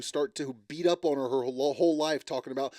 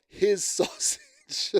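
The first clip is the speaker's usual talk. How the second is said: drawn-out, much higher, mocking "sausage" through a laugh; mock quoting; 3 dB louder, much slower than usual. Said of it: "I'm quoting".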